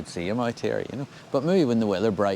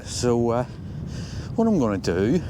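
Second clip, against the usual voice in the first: breathless after the uphill walk; puffing between words; out of breath; 2 semitones higher than usual. Real, not acted. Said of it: "oh dear, I'm out of breath".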